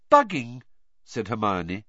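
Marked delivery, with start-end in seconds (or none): 0.1-0.6 high, pleased and louder; a touch of glee, pitched up; happily. A narrator's reading. Hermione revealing the method to Harry, happily.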